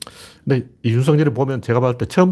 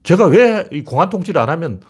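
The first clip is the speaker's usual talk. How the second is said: indignant questioning; 4 semitones higher than usual. Real, not acted. Angrily questions why nobody knew.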